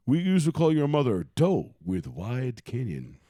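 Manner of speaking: a hint of a put-on cartoon voice; South Park quote voice. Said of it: "South Park".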